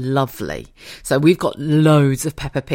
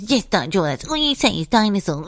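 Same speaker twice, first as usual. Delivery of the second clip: Peppa Pig mocking George; 3 semitones higher than usual. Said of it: "And she goes".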